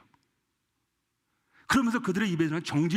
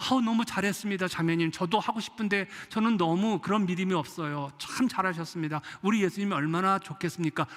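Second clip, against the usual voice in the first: mock praise; 5 semitones higher than usual. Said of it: "라고 해야 되잖아요".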